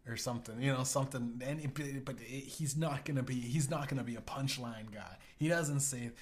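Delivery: normal talking voice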